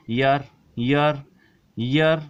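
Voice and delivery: slow, careful teacher model word. Shown as a demonstration. Teacher models the word for students, slowly and carefully. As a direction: sound out the example word slowly. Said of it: "कुछ example है, जैसे कि".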